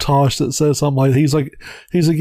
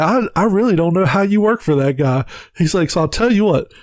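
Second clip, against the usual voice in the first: mock CEO voice; 5 semitones higher than usual.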